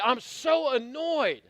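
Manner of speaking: hammed-up annoyed complaint; acted annoyance. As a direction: stretch out the irritation for comic effect. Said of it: "You don't have to be annoyed".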